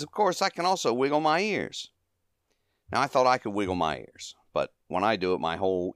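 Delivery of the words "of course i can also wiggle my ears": high-pitched comic stooge impression; imitating a stooge's high voice; Curly. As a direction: pitch it up into a cartoonish boast. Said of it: "He says".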